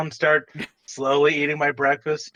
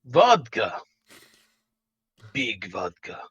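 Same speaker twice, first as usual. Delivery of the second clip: deadpan order; 4 semitones lower, slower than usual. Acted. Player repeats order in character.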